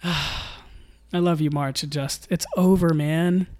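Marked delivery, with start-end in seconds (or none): 0.0-1.8 fond sigh. Real, not acted.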